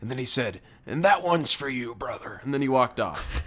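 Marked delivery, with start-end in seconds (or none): 0.9-2.4 lightly voiced redneck dedication, tailing off; a hint of wrestler handing over a gift; Hulk Hogan. Redneck dedicating his poem to a worker, light Hogan-style voice. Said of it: "sounds like his voice is like Hulk Hogan".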